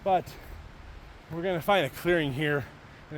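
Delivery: winded, breathing hard. Real, not acted. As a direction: talk between gasps. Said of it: "why I'm so out of breath".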